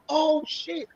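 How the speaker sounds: high, breathy-free startled outburst; a sudden high jolt of alarm; retold alarm. In the crowd with his girl, reliving the shock. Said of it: "I'm like".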